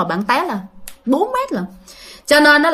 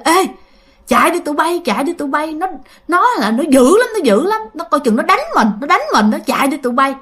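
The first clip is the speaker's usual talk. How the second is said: higher, lightly acted woman's voice; woman's urgent warning; 4 semitones higher than usual. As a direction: warn your companions to flee, mildly acted. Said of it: "giọng của một người đàn bà". (giọng đàn bà cảnh báo, hơi hối hả)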